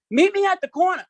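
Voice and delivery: high, loud call of Meet me at the corner, hand to mouth; yelling up the street. Retold or imitated. Kid calling a friend from the street, high loud yell. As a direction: holler it down the block to a friend. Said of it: "you gotta yell like you're yelling up the street".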